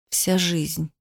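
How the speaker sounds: mumbling. A narrator's reading. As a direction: mumble to nobody, quietly. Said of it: "бормотал он в пустоту". (бормочет в пустоту, тихо)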